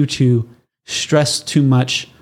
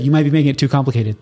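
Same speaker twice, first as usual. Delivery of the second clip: quick; faster than usual. Shown as a demonstration. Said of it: "I just said".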